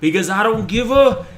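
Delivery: screaming high and loud, dragging the words out slowly; loud high rant. Acted. Streamer taunting a chat user, shrieking loud and high. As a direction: roar it at him like a mock tantrum. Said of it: "how fucking loud I am".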